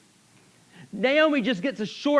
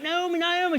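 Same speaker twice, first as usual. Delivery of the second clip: excited greeting; 10 semitones higher than usual. Acted. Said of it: "they start getting excited".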